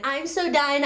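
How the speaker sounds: "I'm so done" with a lightly mocking valley girl lilt, leaning on "so"; a mild mock of the catchphrase. Demoing the catchphrase for viewers in a mild valley girl voice. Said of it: "always talks like this".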